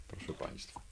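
hushed aside; whispering to the audience. Real, not acted. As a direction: breathe it as a secret.

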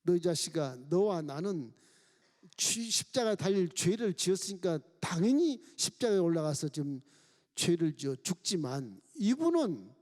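a touch of a stern rebuke; scolding thief. Acted. Right thief rebuking the mocking thief, mild stern scolding. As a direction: scold the other thief sharply. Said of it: "야단을 친 겁니다".

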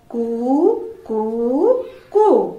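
crowing koo calls like a rooster. Shown as a demonstration. Teacher shows class the rooster's sound, crowing. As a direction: crow like a cockerel for the class. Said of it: "ദീക്ക് എങ്ങനെയാണ് sound ഉണ്ടാക്കുക?".

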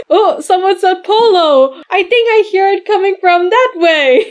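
high-pitched eager play voice; high, pretend-play discovery; searching doll character. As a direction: perk up in a high toy voice.

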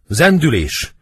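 high, loud stage shout; urgent acted shout; cry of alarm. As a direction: raise the alarm. Servant cries out the alarm.

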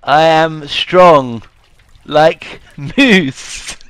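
slow, dim-witted brute; slow strongman voice. Pretend. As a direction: drag it out like a dumb strongman. Playing strongman character.

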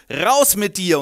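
loud angry shout. Acted. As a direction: throw him out with a bark. Count throws Renald out.

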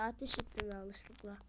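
hushed whisper about a mistake; guilty whisper. Real, not acted. Gamer who fired by accident admits it in a whisper. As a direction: whisper 'Ateş ettim' as if confessing. Yanlışlıkla ateş ettim.

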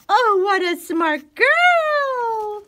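high, slow gushing praise; squeaky praising a dog. Real, not acted.

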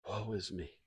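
casual. Shown as a demonstration. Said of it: "Don't think that he said kind of casually".

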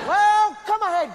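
loud Glasgow fight challenge. Acted. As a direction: bark out the challenge.

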